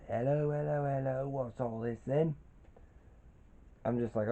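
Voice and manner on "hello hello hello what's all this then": put-on mild British bobby accent, rising at the end; cheery copper catchphrase in a light British accent. Constable Bickles hailing the Turtles, in a mild British accent. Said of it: "He does, he says".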